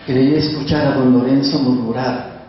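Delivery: calm, measured reading of a sad memory; poetry reading. Acted. Continues reading the poem.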